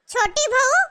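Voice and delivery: short call with a rising end. Acted. Mother-in-law seeking the cook, calling out. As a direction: summon someone from another room.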